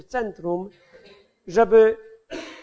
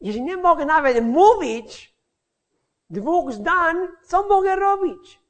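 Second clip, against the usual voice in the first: higher-pitched, retold plea; exasperated plea to God; 5 semitones higher than usual. Preacher retells his prayer after doors closed, exasperated plea. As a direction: plead upward in mild mock despair. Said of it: "Poszedłem do domu, mówiłem".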